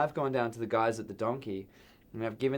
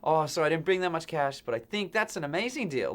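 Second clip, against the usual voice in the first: higher, eager voice, selling himself on the deal; excited retelling; 5 semitones higher than usual. Retold or imitated. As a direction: play the thrilled tourist who can't resist. Retelling his excited reply.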